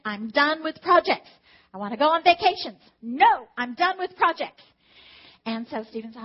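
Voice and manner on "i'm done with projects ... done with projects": firm loud refusal. Retold or imitated. Flatly refusing the banker's offer.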